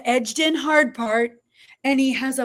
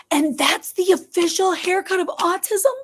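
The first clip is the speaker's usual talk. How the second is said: incredulous; 6 semitones higher than usual. Real, not acted. Retelling her shock at the therapist.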